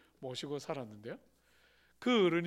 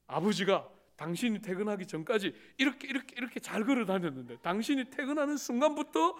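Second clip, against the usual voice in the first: wife telling tales, building up higher and louder; mock wife reporting, rising to louder; wife tattling; 3 semitones higher, 4 dB louder than usual. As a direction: rise into a hushed-then-loud complaint about father. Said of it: "막 또 일러줘요".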